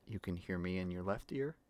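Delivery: soft ASMR whisper into the left ear; breathy close-mic whisper, left side. Shown as a demonstration. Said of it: "I can do A S M R with this mic".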